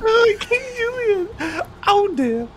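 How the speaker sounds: slow very high squeaky voice; squeaky laughing chipmunk; helium voice. Real, not acted. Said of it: "I sound like the little chipmunk".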